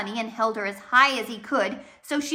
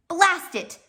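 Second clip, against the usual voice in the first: frustrated; 8 semitones higher, 6 dB louder than usual. A narrator's reading. Poe swears at the escape.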